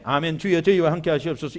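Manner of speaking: low, half-hearted mumbled 아멘, 주여 as a careless habit; wrong way to respond. Shown as a demonstration. Pastor shows the congregation how not to answer: a low, listless amen. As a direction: mumble "아멘, 주여, 저희와 함께 하시옵소서" low, as if by rote. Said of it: "이렇게 하지 마세요".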